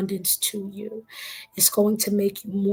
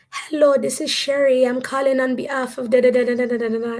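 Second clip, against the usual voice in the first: put-on higher-pitched, lilting Caribbean accent; 4 semitones higher than usual. Survey caller Sherry introducing herself on the phone, Caribbean accent. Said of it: "do my Caribbean accent".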